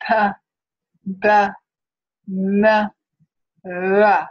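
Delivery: "pa, ba, na, la" made with the tongue tip touching the upper lip; tongue against the lip on "pa, ba, na, la"; linguolabial sounds. Shown as a demonstration. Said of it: "I'm gonna say each of these sounds in turn".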